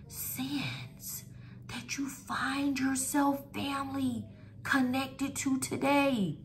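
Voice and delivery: hushed, confiding whisper; whispering a secret. Real, not acted. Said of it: "And I'm whispering because it's a secret".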